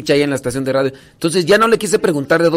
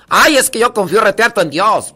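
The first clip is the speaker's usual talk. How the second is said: higher, lively country Mexican woman; put-on Mexican village accent; imitated country accent; 7 semitones higher, 4 dB louder than usual. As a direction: mimic a devout comadre with a rural Mexican accent. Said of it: "no es ese acento con el que habla".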